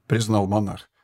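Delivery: plain reading voice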